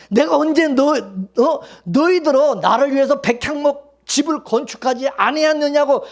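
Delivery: God rebuking David. Retold or imitated. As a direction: scold him as a stern God would. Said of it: "하나님 뭐라 했어요". (다윗을 꾸짖는 하나님의 언성 높인 책망)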